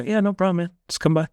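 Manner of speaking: high, fast, breezy reassurance; a clinic staffer cheerfully waving him back. Retold or imitated.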